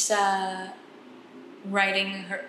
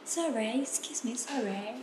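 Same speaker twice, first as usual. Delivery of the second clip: British apologies; 3 semitones higher, 7 dB quieter, slower than usual. Retold or imitated. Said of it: "bilang sorry sering".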